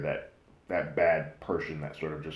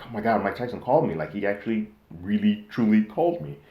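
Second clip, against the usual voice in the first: higher, louder thrilled retelling; excited; 5 semitones higher, 6 dB louder than usual. Retold or imitated. Girl tells friends of the surprise phone call, excited. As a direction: imitate a thrilled girl, pitch climbing to the end. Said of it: "excited, celebrated. She's like".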